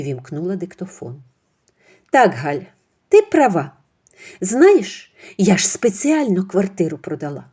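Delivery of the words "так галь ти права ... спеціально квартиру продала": scheming mother-in-law. Acted. Mother-in-law boasting to her friend Halia on the phone.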